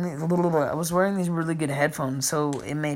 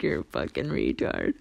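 mocking classmates; 13 semitones lower, 6 dB quieter than usual. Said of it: "The class looked at me like".

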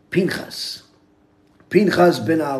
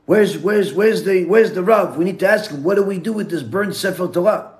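higher, louder frantic questioning; acted urgency; 4 semitones higher, 5 dB louder than usual. Townspeople holding a burned scroll seek the rabbi, acted urgency. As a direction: stumble over the words as if rushing for help.

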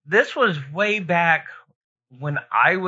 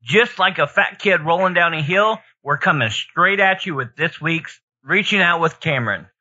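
ringmaster; 3 semitones higher, 4 dB louder than usual. Pretend. Hyped podcast intro, announcer opening.

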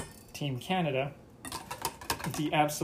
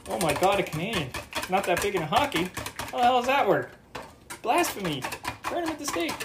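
higher, hammed-up outrage; mock outrage; 6 semitones higher than usual. Mocking outrage at a Canadian not liking hockey, higher and hammed-up. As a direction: play a scandalised fan crying blasphemy.

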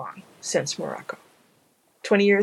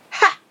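barked laugh; 7 dB louder than usual. Acted. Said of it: "barked out aloud".

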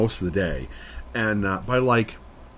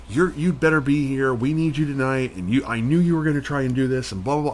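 higher, scolding imitation of the manager; mock nagging boss; 4 semitones higher than usual. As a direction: nag like a bossy manager, mocking her.

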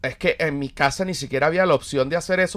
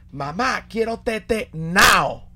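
put-on slow, higher whiny toddler begging; whiny baby; 7 semitones higher, much slower than usual. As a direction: drag it out like a toddler asking for the bottle. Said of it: "le decía a la mamá". (bebé caprichoso pidiendo tetero, lento y agudo)

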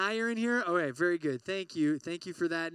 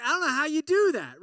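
higher and louder, playfully incredulous; amazed exclamation; 7 semitones higher, 7 dB louder than usual. Retold or imitated. Husband marvelling at his calm wife, playful disbelief. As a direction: marvel at her calm, half-joking. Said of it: "I'm like".

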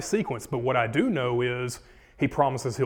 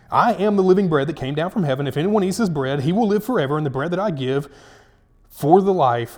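loud, emphatic verse reading; scripture reading; 3 semitones higher, 6 dB louder than usual. Acted. Preacher reading Jesus' bread of life claim, forceful proclamation. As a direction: proclaim it in a raised voice.

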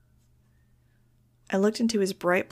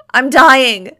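very loud, high wail; 5 semitones higher, 16 dB louder than usual. A narrator's reading. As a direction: wail as if in mortal agony. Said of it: "Iggy wailed".

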